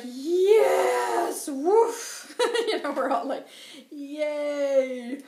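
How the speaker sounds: high, loud whoop of joy; cheering. Retold or imitated. Everybody cheering White Hawk's news, high and loud. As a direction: cheer like a crowd.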